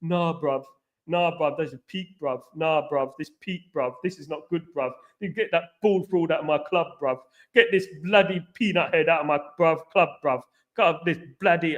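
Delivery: lightly mimicked London fan-channel rant; mock a disgusted "bruv" football YouTuber, lightly; fan channel parody. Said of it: "some of those other fan channels".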